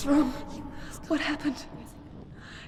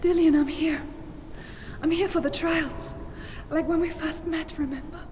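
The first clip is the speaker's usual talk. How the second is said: loud, high, carrying call; 8 semitones higher, 10 dB louder than usual. Acted. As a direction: call out to someone far away. He calls to her from afar.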